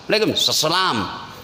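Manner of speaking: slow, lazy reply. Retold or imitated. Preacher mocking a lazy answer to the greeting, slow and limp. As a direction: drag it out with no effort. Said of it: "Jangan terlalu malas".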